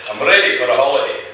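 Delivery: light, quick Irish lilt; Irish accent. Acted. Paddy tells Mick his plan, light Irish accent. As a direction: put on a bit of an Irish accent. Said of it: "That was a good Irish accent".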